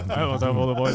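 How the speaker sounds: loud, proud announcing. Retold or imitated. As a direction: call it out to the room. Repeating the announcement louder.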